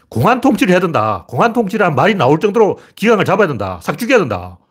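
re-enacted tirade, pitched high; heated warning. Commentator quoting his own past prediction to viewers, heated warning.

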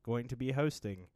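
slow, stiff robotic announcer; robot radio announcer. Shown as a demonstration. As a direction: read it like a deadpan radio robot. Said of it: "the robot d-, radio announcer voice".

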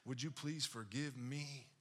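high, pleading retold tearful apology; imitated weepy apology; mock crying. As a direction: plead for forgiveness, pitch climbing as if crying. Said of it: "And now I'm crying".

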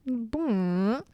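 boop through a laugh; huge snorting bison. Acted. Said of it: "when you do Buffalo's voice".

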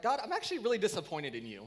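lightly re-enacted venting at God; retold angry outburst. Preacher venting to God behind the wheel, mildly angry. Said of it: "I've yelled that behind my steering wheel".

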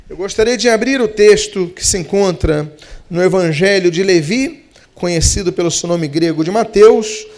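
ordinary delivery

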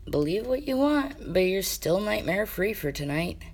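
Mamoru's voice. Acted. Mamoru teases from under covers.

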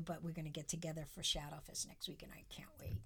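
whispering. Real, not acted. Excited about coven gathering.

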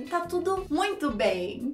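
slow, stretched false reassurance; sarcastic. Shown as a demonstration. Teacher showing a phrase like "it's fine", sarcastic. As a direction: drag it out, not meaning it. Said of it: "ela vem já com sarcasmo".

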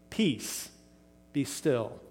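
quiet calm command, no yelling; calm, not angry. Shown as a demonstration. Jesus calmly telling the wind and sea to be still. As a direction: speak peace gently to the storm. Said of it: "no implication here that he yelled at the wind".

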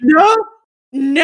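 loud pained protest; protesting shout. Real, not acted. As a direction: cry out no in dismay. Protesting the sad image.

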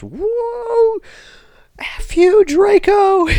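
high mock yell at the screen; mock crowd yell. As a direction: jeer like a rowdy crowd. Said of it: "just screaming".

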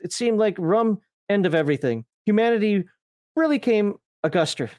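lightly put-on Australian storyteller; mild mock-Aussie lilt; Australian accent. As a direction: read it out in a half-hearted Australian accent. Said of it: "I hate speaking Australian".

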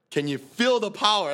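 high, loud, drawn-out yell; mock ecstatic bellow; imitated yelling. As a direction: yell it slowly, mimicking a frat brother. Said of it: "he's, like, yelling".

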